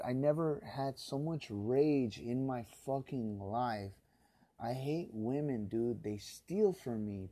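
grind out the grievance; seething slow rant; real rage. Real, not acted. Furious rant about stolen card.

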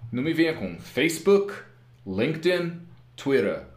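put-on brand names in an American accent; mock-polished American English pronunciation. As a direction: say Facebook, LinkedIn, Twitter the American English way. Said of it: "Fala português direito".

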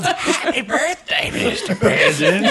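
slow, high mock starlet; Marilyn Monroe. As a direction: drag it out like a talking crow. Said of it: "Like a talking crow".

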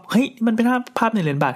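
high-pitched gasp of amazement in words; excited discovery. Retold or imitated. Dad showing his kids the coin picture, excited. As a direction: exclaim it high, as a thrilling find.

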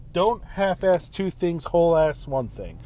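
slow, deliberate deadpan line; a hint of Ron Swanson, spelled out slowly; Ron Swanson quote. Quoting Ron Swanson's motto to listeners, slow deadpan. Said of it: "the phrase that the infamous Ron Swanson said".

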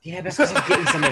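speaking away from the microphone; off-mic, distant voice; far from mic. Real, not acted. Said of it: "He's walked away from the mic again".

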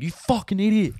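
high mock screaming insult; mock yell. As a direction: squeal it like a joke. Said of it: "we were all just like".

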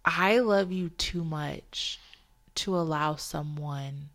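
gently reassure, as the Spirit would; sweet Spirit's voice. Retold or imitated. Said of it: "I just heard the Spirit say so sweetly".

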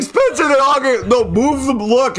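high, urgent retold call; excited calling out. Teller tells friend to look at the car, excited. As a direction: get a friend's attention, giddily.

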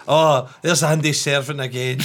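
hammed-up excited fan impression; imitating Diane. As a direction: tease her gushing, half laughing. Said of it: "She's like".

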